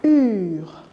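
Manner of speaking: "Ur" drawn out and clearly mouthed; careful sound demo. Shown as a demonstration. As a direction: model "Ur" slowly for learners. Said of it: "Regardez ma bouche". (« Ur » allongé et bien articulé)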